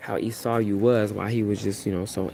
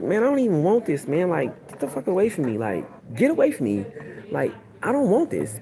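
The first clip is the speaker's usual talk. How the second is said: aggravated; 6 semitones higher than usual. Acted. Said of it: "he's getting aggravated".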